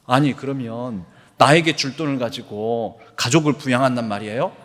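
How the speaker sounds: a beggar's mild indignant retort; protest, only lightly heated; angry protest. Retold or imitated. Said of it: "막 화를 내면서".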